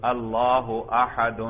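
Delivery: اللہ احد read slowly and evenly as "allahu ahad"; read smoothly. Shown as a demonstration. Teacher models the fluent reading for students, slow and smooth. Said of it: "اب اس پورے جملے کو روانی سے پڑھ دیں بھائی".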